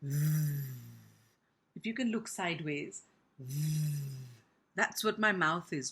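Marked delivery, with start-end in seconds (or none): 0.0-4.0 "V" as a buzzing voiced th sound. Shown as a demonstration. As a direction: hum the tongue-between-teeth th in "V".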